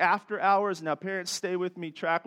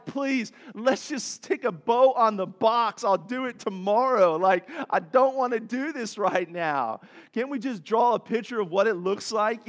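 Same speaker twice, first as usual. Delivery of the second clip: begging wife; 3 semitones higher, 4 dB louder than usual. Retold or imitated. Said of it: "I would beg my wife".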